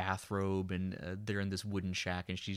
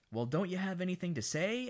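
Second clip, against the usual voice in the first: brash stepmother, pitched way up; outgoing stepmother; 10 semitones higher than usual. Retold or imitated. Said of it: "asks the stepmother".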